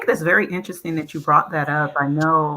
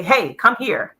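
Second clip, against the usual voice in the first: a different way; 5 semitones higher, 4 dB louder, slower than usual. Shown as a demonstration. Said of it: "But if I say".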